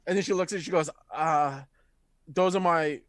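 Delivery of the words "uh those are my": mildly defeated. Acted. Centaur explains the stolen goods, understated defeat. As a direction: admit it with long pauses, a touch deflated. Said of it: "like, kinda defeated".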